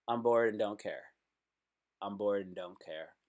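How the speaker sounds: fading bored mumble. Retold or imitated. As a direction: let the bored line die away into a mumble. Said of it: "what they're really saying is".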